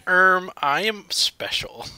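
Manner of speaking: mock his self-importance, drawn out; mock self-important man. Self-named food oracle announcing himself, slow mocking voice. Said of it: "He said".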